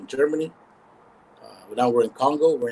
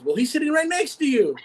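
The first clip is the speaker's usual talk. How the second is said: retold laughing reveal; 13 semitones higher than usual. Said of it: "He says".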